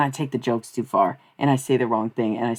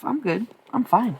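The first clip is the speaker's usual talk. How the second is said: fake cheerful; 9 semitones higher than usual. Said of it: "I did go the approach of".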